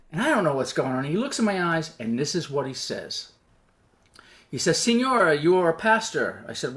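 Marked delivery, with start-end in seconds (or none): 4.8-6.4 lightly imitated broken English, high then falling. Soldier questions the pastor, in broken English. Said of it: "he talks in broken English".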